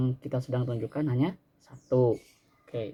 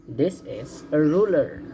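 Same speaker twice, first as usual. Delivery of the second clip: slow model sentence; slower than usual. Shown as a demonstration.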